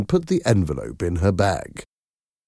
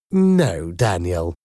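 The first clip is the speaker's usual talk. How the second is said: firm; slower than usual. Acted. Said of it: "Miranda said in a firm voice".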